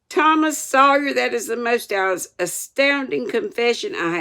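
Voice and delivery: high, loud stern bellow; angry teacher calling out the pupil; outraged shout. Acted. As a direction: thunder the boy's name. Master's outraged address.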